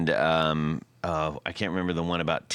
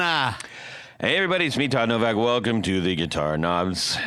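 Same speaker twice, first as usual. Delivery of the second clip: excited show host; 4 semitones higher than usual. Acted. Hyped show welcome.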